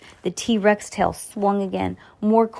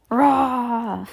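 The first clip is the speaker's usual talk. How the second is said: monster roar; 5 semitones higher than usual. A narrator's reading. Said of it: "the monster roared".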